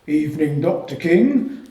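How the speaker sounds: loud, hearty porter's greeting, stretching King; booming porter. A narrator's reading. Head porter greeting the tutor at the lodge, booming. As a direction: boom it out like an old guardsman. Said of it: "boomed the former guardsman".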